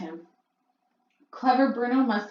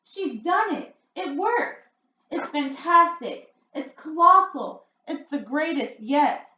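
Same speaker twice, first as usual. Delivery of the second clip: crowd cheering; 8 semitones higher, 4 dB louder, slower than usual. A narrator's reading. Witch audience cheering the spell.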